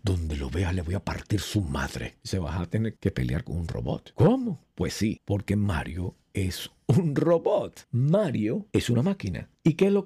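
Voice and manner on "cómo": a sudden high, shocked "what?"; startled question. Pretend. Imagined worker hearing he must fight a robot, shocked. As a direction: jolt up in disbelief.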